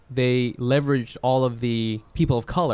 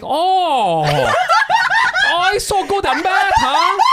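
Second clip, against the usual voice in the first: much higher, louder hammed-up accent, laughing throughout; mock Asian accent; 5 dB louder, slower than usual. Tutor answering students who say it isn't fair, in a loud mock Asian accent. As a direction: ham up a boastful Asian caricature, slowing on the taunts. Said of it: "I would be like".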